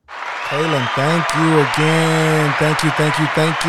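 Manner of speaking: loud, slow, drawn-out thank you; loud hammed-up thanks. Real, not acted. Host booming thanks to his guest Kaylin, drawn out. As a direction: boom the thanks like an emcee.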